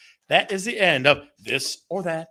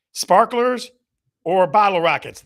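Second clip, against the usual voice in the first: showman announce; 3 semitones higher, 7 dB louder than usual. Real, not acted. Host announcing the first choice, excited. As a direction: call it out like a game-show host.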